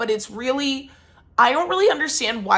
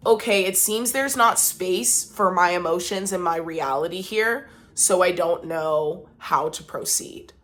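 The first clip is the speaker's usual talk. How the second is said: calm measured statement; 2 semitones lower than usual. Shown as a demonstration. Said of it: "a good thing to say is".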